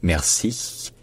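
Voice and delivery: merci with the i prolonged into a voiceless ch; merci, long devoiced final i; drawn-out final i. Shown as a demonstration. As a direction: stretch the end of "merci" into breathy friction. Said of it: "quand on prolonge un i".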